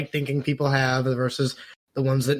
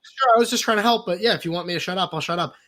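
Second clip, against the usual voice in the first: mock meek ally; 5 semitones higher, faster than usual. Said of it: "and then you go".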